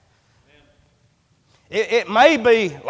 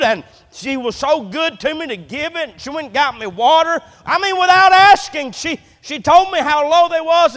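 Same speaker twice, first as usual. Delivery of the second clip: Elijah's anguished prayer; 5 semitones higher than usual. Acted. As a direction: plead and argue with God for the widow's son. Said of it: "Elijah cried to the Lord and said".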